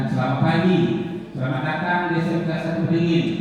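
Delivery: how not to greet: hurried and careless; rushed greeting. Shown as a demonstration. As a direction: rattle the greeting off without care.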